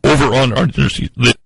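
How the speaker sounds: trailing off. Real, not acted. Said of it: "Trailed off a little".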